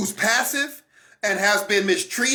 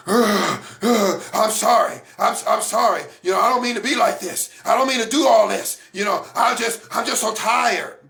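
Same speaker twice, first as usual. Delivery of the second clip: a lightly acted tired apology; weary apologetic angry person. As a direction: play the exhausted partner saying sorry.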